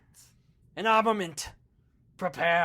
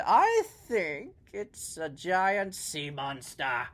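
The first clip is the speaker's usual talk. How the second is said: slow eerie reveal; slower than usual. Acted. Biggs reveals the monster.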